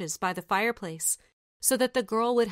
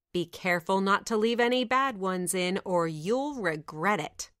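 scornful stepsister. Acted. Eldest stepsister scolding.

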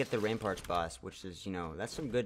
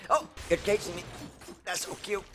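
mock cute voice; 7 semitones higher than usual.

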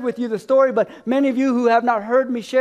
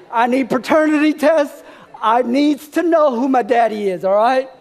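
talk-show guest bit; 4 dB louder than usual. Retold or imitated. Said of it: "I need Jerry Springer and to say".

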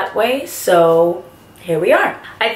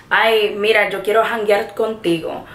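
Puerto Rican accent; 2 semitones higher than usual. Shown as a demonstration. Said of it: "the word is janguear".

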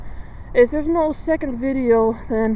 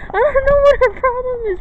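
exasperated; 11 semitones higher, 5 dB louder than usual. Real, not acted. Girl keeps bumping into her.

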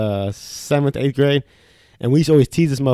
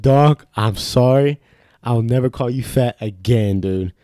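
retold pleading; slower than usual. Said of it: "I said".

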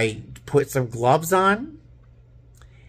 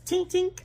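short "tink, tink" sound effect; imitated plate clink; 4 dB quieter than usual. Describing French toast sticks like bricks, imitated clinking. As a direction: mimic a brick-hard bite hitting china. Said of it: "like, bricks".

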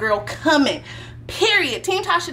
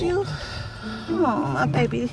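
mock baby talk.

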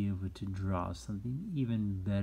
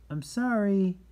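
demonstrated apology; 10 semitones higher, 7 dB louder than usual. Shown as a demonstration. Teacher shows what you say after excuse me, demonstrated apology. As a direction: stretch it out so children can copy.

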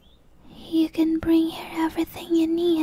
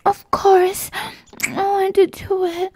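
eager, half-voiced; 3 semitones higher, 5 dB louder than usual. Eager acceptance of proposal.

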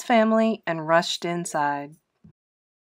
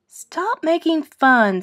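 hurt plea; 8 semitones higher, slower than usual. Acted. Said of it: "said Frankie".

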